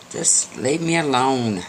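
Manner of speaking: slow, tired plea to be left alone; weary horse voice. Acted. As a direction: ask it wearily, drawn out. Tired horse refuses help.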